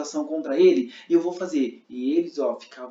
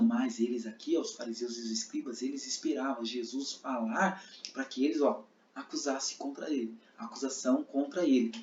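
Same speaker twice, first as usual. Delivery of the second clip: soft, lower voice telling it; quiet narration; 3 semitones lower, 8 dB quieter than usual. Shown as a demonstration. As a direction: narrate softly. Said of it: "Eu não fui o narrador falando". (narração baixa e suave)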